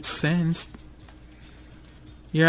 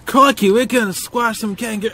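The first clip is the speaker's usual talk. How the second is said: higher-pitched, hammed-up Aussie; mock Australian accent; 4 semitones higher, 4 dB louder than usual. Player racing past kangaroos, mock Australian accent. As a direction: badly fake an excited Australian. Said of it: "I hope I'm not offending any Aussies".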